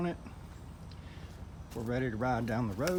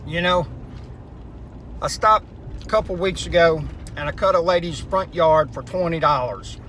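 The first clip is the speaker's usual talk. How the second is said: raised voice; 4 semitones higher, 10 dB louder than usual. Real, not acted. Talking over road noise while driving.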